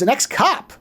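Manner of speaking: startled question. Retold or imitated. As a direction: query it back in surprise. Repeats the news as a startled question.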